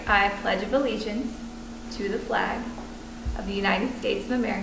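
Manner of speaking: pausing between word clusters; pledge cadence pauses. Shown as a demonstration. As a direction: recite it in schoolroom clusters with gaps. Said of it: "Did you see how you pause now in those clusters?".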